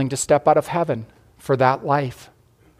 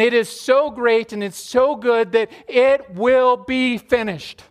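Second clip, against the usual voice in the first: raised, fervent voice of Jesus offering his life; Jesus speaking in sermon; 6 semitones higher than usual. Acted. Preacher voicing Jesus to the congregation, high and fervent.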